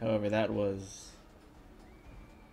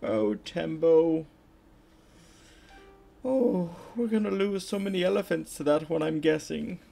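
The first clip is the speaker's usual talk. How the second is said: high, put-on English elephant voice; English accent; 9 semitones higher, 5 dB louder than usual. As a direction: lament it in a loud, high mock-English accent. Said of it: "has an English accent".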